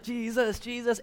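high, excited chant of the name; mock crowd praise. Pastor voicing the crowd cheering Jesus, excited. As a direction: praise him like an amazed crowd.

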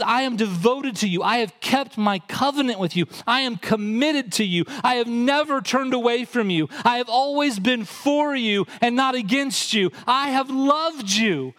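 God's promises, preached with mounting force; emphatic declaration. Acted. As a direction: build each promise to a peak.

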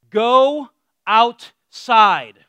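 loud, drawn-out go outside; shouted order. Retold or imitated. Parent yelling at kids to go outside. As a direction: bark it at the kids to get out.

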